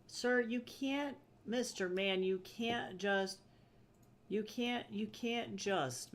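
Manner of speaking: high, slow mock scolding; slow pleading scold; scolding the cat. Real, not acted.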